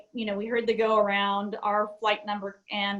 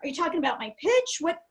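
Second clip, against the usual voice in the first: confused copilot; 4 semitones higher than usual. Retold or imitated. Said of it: "And I'm like".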